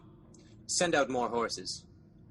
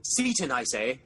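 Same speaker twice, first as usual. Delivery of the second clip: calling out; 3 semitones higher, 6 dB louder than usual. Acted. King calling for his servant.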